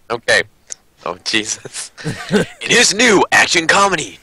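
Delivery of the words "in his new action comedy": lightly hammed-up trailer announcer; a touch of dramatic movie-trailer read. Reading a card to fellow players in a mock trailer voice. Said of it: "movie trailer voice".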